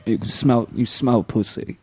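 British rock star. Pretend. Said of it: "You read so hard".

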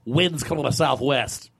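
measured, mock on-air forecast; radio weather read. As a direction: parody broadcaster reading the forecast.

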